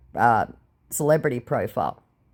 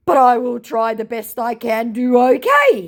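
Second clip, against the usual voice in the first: scammer voice; 8 semitones higher, 6 dB louder than usual. Retold or imitated. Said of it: "he said".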